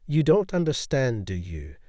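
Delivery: scornful, a touch condescending; hint of disdain. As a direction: talk down with mild disdain. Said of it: "her voice dripping with a hint of disdain".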